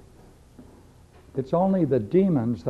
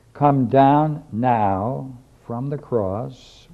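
slow drawn-out taunt; 6 dB louder, much slower than usual. Retold or imitated. Voicing mockers at the cross.

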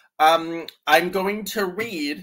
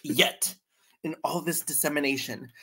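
put-on old author's internal dialogue. Reading an old man's book to co-hosts, mock-solemn. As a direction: build the list of experts theatrically. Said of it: "My voice is his internal dialogue".

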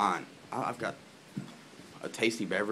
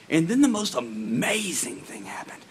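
hushed tease; 7 semitones higher, 4 dB louder than usual. Real, not acted. Building suspense in story.

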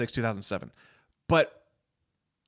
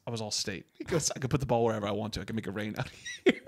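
cocky boast; 3 semitones lower, 7 dB quieter, much faster than usual. Retold or imitated. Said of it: "And Vince Vaughn goes".

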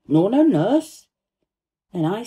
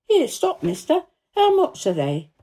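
high opening hail, easing into a question; sudden call; 9 semitones higher, 3 dB louder than usual. A narrator's reading. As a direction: hail a passing seller abruptly. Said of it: "calls out quite sudden".

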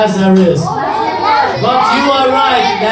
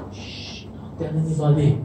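shush, then low, softer voice; hushed secret warning; 7 semitones lower, 8 dB quieter than usual. Retold or imitated. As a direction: hush them and keep it confidential. Shushes, repeats order as secret.

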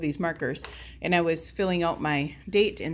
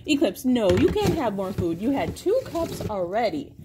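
firm scolding; 4 dB louder than usual. Real, not acted. Scolding dog at bowl.

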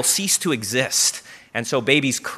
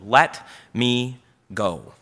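slow and gentle; 4 semitones lower, 4 dB quieter, much slower than usual. Shown as a demonstration. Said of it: "I want you to remember those words".

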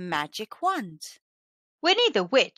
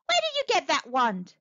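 higher-pitched, eager question; crying out; 6 semitones higher than usual. A narrator's reading. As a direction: call out the question like a curious crowd. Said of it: "they cried".

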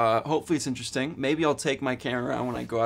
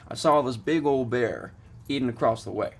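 lightly put-on Southern accent, getting louder; 6 dB louder than usual. Accent time for viewers, a bear tale in a mock Southern accent. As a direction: tell the bear story in a hammed-up Southern accent. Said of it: "I was going for Southern".

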